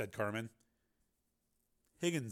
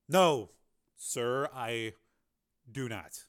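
fading to a whisper; 3 dB louder, much slower than usual. Acted. Defeated reply fading.

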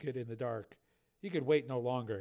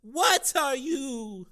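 much higher, slow frightened question; trembling voice; 12 semitones higher, 7 dB louder, much slower than usual. A narrator's reading. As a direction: ask in terror of the stranger. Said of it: "in a trembling voice".

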